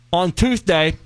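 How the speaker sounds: Tuesday said as Toothday, lisped th; mispronounced Tuesday. Pretend. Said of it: "That's Tuesday, not Tuesday".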